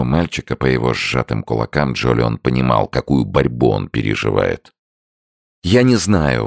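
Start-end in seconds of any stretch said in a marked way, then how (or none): 5.6-6.5 blurted out. A narrator's reading. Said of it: "вырвалось у него наконец".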